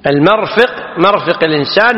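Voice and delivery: "مرفق" pronounced marfiq, open first vowel; fatha on the meem. Shown as a demonstration. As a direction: say "المرفق" and "مرفق" with a short a after the meem. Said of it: "مفتوح الميم".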